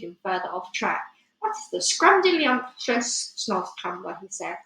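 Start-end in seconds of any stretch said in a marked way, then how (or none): 1.4-4.2 slow, savoured mock delight; playful giant talking up the food; feigned relish. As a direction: relish the silly word, swooping up in pitch.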